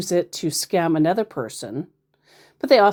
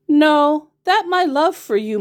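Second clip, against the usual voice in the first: louder and much higher mock gush; hammed-up loud reading; 11 semitones higher, 6 dB louder than usual. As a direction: overplay his cheesy line. Reading scammer's message loudly.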